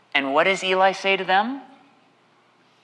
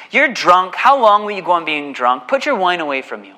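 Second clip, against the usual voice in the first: blunt accusation; 5 dB louder than usual. Retold or imitated. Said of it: "He just blazes on it".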